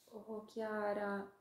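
high, slow, tender little voice; a tiny creature melting with affection; touched ladybug. Acted. Ladybug to the sad writer Chiara, high and slow.

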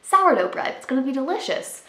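lightly excited self-quote; mock excited self-quote. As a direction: play your past self full of hope. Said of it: "and I was like".

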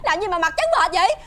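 rising pitch, rattled and accusing; startled scolding. Acted. Friend scared by a white face mask, startled scolding. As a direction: scold right after a fright.

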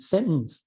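"sentence" as sen'ence, no T released; swallowed T. Shown as a demonstration. Teacher demonstrates the Western style, "sentence" with swallowed T. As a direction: catch the T of "sentence" in the throat. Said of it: "อึกอึกอยู่ในคอเนี่ยนะ แต่ไม่ออกเสียงเป็นตัว T".

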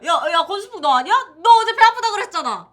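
fast accusing. Acted. Siblings accusing each other.

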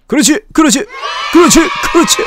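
loud, high cheers of triumph; excited cheering. Real, not acted. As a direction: yell it out in triumph. Cheering success.

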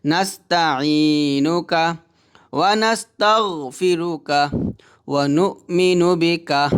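measured, drawn-out chant of the dua; slow recitation. Shown as a demonstration. Teacher recites the first line again for students, slowly chanted. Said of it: "প্রথম লাইনটা আপনাদের বলি আবারও".

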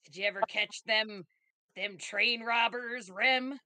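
put-on heavy Southern accent. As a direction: lay the Southern accent on thick. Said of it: "use the real heavy".

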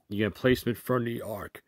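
talking through a burp; burping the words. Real, not acted. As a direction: burp while saying it. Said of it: "that's like burp talk".

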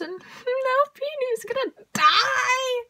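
high, slow half-laughing wail; laughing despair. Real, not acted. Fan wails through a laugh over Peony's doom.

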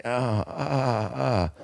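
soft, badly acted pained groans; poorly faked groans. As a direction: ham up a fake stomach ache. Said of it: "just really poorly, you know, delivering".

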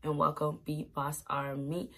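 hoarse, sore-throat voice. Real, not acted. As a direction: speak through a sore throat. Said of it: "my throat is so sore. That's why I sound like this".

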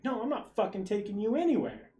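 mock angry refusal. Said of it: "She's like".

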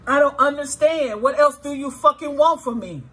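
voicing viewers' anger. Tarot reader voicing viewers to their betraying ex, exasperated anger. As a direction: voice the hurt partner's angry outburst. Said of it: "That's what some of you guys are saying".

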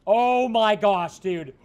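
a long, loud, slow oh my gosh; drawn-out groan of dismay. Real, not acted. Streamer losing a tough level, slow loud groan. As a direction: stretch it out in real frustration.

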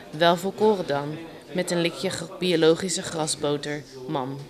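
measured poem recital with pauses between phrases; understated spoken poetry; poem reading. Acted. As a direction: read your own poem aloud, phrase by phrase. Recites her own poem.

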